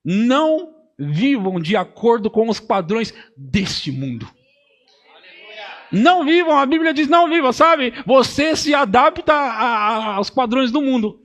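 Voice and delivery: rising preacher's call, loud and high; preaching at full force. Acted. Pastor urging the congregation to not live by worldly standards, loud and high. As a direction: drive the verse home to the church.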